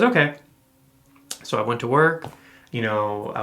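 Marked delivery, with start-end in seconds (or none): 0.0-0.3 high bright okay; imitating wife. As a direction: chirp okay like her. Wife's reply voiced high.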